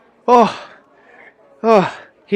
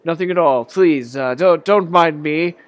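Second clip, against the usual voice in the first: put-on high, loud, pleading old man voice; a jittery old drunk begging to be left alone; frightened old man insisting he's harmless; nervous old man; 6 semitones higher, 5 dB louder than usual. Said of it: "He's like".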